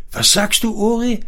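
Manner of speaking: high-pitched, indignant question. A narrator's reading. Wife taken aback by husband's dismissal, indignant. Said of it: "empörte sie sich".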